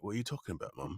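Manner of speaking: child's put-on British accent. Boy protesting to his mom, British accent. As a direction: answer mom in mock British. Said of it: "talking in a British accent".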